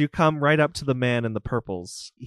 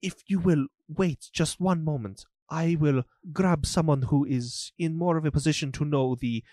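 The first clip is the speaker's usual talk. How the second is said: a hint of a fussy, formal steward, a bit fast; bowing and apologizing in a lightly put-on voice; lightly voiced steward; 4 semitones higher than usual. Steward greets the lady at the estate, lightly voiced and apologetic. Steward checks his guest list.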